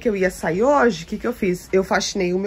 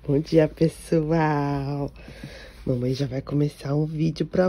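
voicing the baby; 5 semitones lower, 4 dB quieter, slower than usual.

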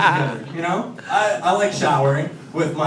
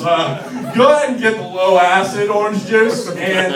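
husband dramatically lamenting his juice; lightly acted dramatic husband; lightly voiced husband. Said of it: "And he's just like".

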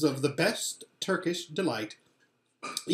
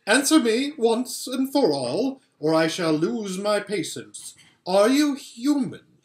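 much higher, louder commanding queen; queen losing patience with the boy; impatient Queen; 6 semitones higher, 6 dB louder than usual. A narrator's reading. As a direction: demand it, patience nearly gone. Queen demands.

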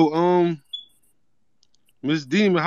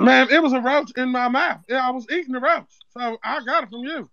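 a lightly put-on accent, prank caller opening the complaint; Zeke from Power; 3 semitones higher, 3 dB louder than usual. Prank caller tells the home cook about old food, lightly put-on accent. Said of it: "why is he talking like Zeke off power".

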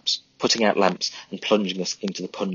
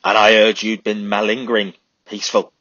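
a louder snarl of contempt; snarled retort; 2 semitones higher, 7 dB louder than usual. Acted. Sergeant Hanley sneers at Charlie, snarling. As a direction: spit it back at him. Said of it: "Hanley snarled".

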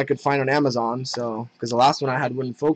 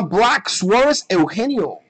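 names in a Spanish accent, higher pitched; 4 semitones higher than usual. Real, not acted. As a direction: roll out the name in Spanish pronunciation. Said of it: "say it in my Spanish accent".

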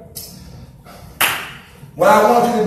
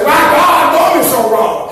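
mock complaint to God; 4 semitones higher than usual. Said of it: "You're gonna say".

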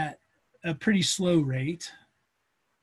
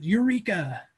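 mock cry of discovery, higher pitch; retold yell; 4 semitones higher, slower than usual. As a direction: imitate Archimedes' excited yell, not full volume.

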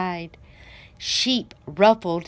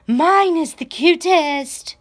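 cutesy boast; 8 semitones higher, 4 dB louder than usual. A narrator's reading. Animals bragging at the contest.

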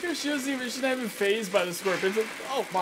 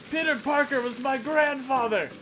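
usual speaking voice

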